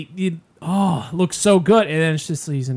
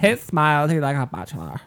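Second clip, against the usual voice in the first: lightly voiced swooning fangirl; a hint of silly girl; idiot girl impersonation. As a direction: gush like a mock airhead fan. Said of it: "just going idiot, idiot girl impersonation".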